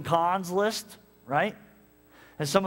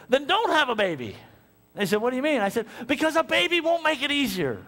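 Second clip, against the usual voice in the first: higher, louder firm advice; raised earnest counsel to the couple; emphatic retold advice; 9 semitones higher, 4 dB louder than usual. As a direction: drive the point home.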